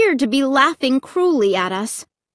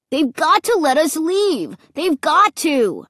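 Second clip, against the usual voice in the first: higher, rising panic, pleading; panicky whine; 7 semitones higher, 4 dB louder than usual. A narrator's reading. Scared boy insists they must be let out. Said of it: "whining too".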